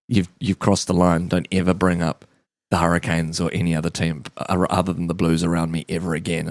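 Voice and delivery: low, restrained mock menace; understated acted threat; stern warning. Acting player's stern warning.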